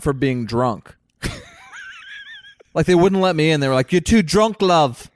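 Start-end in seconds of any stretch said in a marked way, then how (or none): 3.9-5.1 condescending bouncer. Retold or imitated. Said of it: "it was real condescending".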